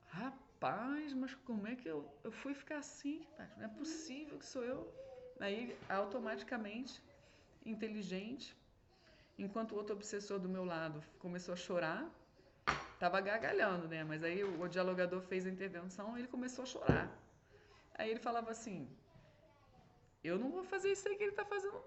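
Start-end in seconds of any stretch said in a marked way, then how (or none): 0.1-4.8 a higher, disbelieving cry of dismay; dismayed spirit. Retold or imitated. Spirit shocked at his reflection. 20.2-21.8 high, fast, louder proud refusal; a mocking spirit scoffing at the one who cries; defiant spirit.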